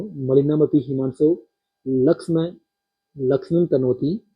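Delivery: measured chant-like reading, breaking after "हिमांशो" and after "लक्ष्म"; verse caesura reading. Shown as a demonstration. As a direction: recite with a clear pause after "हिमांशो". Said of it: "यहाँ तक पढ़ना आपको".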